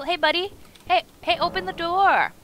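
high, loud yelling; shouting at a locked door in a game; angry yelling. Acted. Yelling at NPC behind door.

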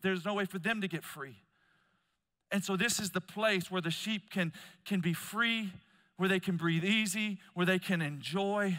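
impassioned preaching. Real, not acted. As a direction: preach it high and loud. Preaches with raised force.

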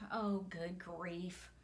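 put-on slow, grumbling old grandma; a grumbly grandma sighing in dismay; muttered. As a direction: mutter it under your breath, slowly. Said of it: "Grandma muttered".

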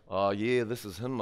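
casual New Zealand phone answer; New Zealand accent. Retold or imitated. Answering the British caller, New Zealand accent. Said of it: "talking with a New Zealand accent".

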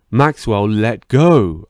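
loud cry to let go; yelled. Acted. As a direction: shout his name, then demand he let go. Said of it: "I yelled".

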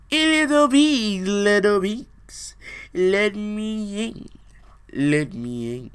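sing-song the plea at the door; high, slow wolf calling in. Acted. Wolf at second house.

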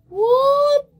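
high, loud, stunned what; shrieked what; astonished what. Real, not acted. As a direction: yelp it in disbelief. Disbelief at game.

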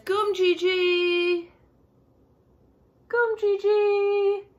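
"Gum Gigi" said slowly, each syllable drawn out; slow word demo. Shown as a demonstration. Teacher slowly modelling a Ghanaian word for children. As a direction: pronounce "Gum Gigi" slowly so kids can repeat. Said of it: "That's how you say peace in Ghana".

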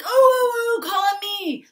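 high, loud, bursting to be picked; eager student. Retold or imitated. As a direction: beg the teacher to call on you. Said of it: "but instead you're like".

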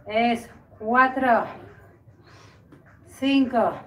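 strained, effortful coaching mid-exercise; exercising while talking. Real, not acted. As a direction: push through the rep as you speak. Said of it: "It's heavy".

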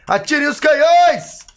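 high, loud, slow command; commanding shout. Acted. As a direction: order the cannons to fire. Commanding the house cannons. (comando gritado)

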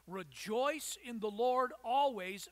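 slow, loud proclamation of always; proclaiming loudly. Acted. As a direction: call it out to the whole church, drawn out. Preacher proclaims the command.

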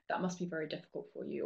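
soft, sympathetic playback; gentle validation. Shown as a demonstration. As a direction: say it softly and kindly. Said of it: "So you play it back, say".

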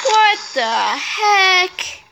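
泣きそうにゆっくり; 泣き声まじりの「What the heck?」; whimpering. Real, not acted. Distress at the dragons.

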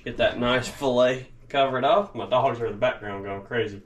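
usual speaking voice

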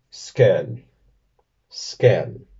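skel with a fronted e-like vowel; Danish pronunciation. Shown as a demonstration. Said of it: "en danés".

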